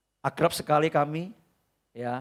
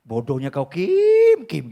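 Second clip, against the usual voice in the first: a lightly voiced teasing friend; mock the mourner fondly from heaven; a hint of a laughing friend's tease; imagined friend teasing; 6 dB louder, slower than usual. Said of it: "ini saya membayangkan".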